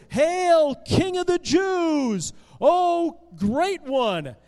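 loud, high, drawn-out fake acclaim; mocking homage. Soldiers bowing down to make fun of Jesus, mocking. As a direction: hail him with exaggerated pomp, making fun. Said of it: "the soldiers are making fun of Jesus".

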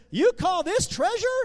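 put-on high, incredulous kid's question; scoffing disbelief. A narrator's reading. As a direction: scoff at the box of straw. Eli scoffs at straw treasure.

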